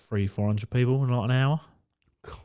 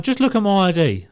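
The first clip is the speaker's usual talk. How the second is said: put-on a high, louder drunk girl pleading; mock drunk insisting; 9 semitones higher, 5 dB louder than usual. Drunk girl pushing her bank card at the bouncer, high mock plea.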